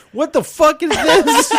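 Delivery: hammed-up outraged yell at the pump; roommate yelling. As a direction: roommate shouting at the penis pump, mock outrage. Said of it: "roommate pulls out the pump and goes".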